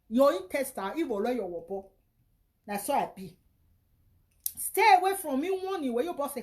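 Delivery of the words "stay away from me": angry warning. Real, not acted. Angry warning to online critic.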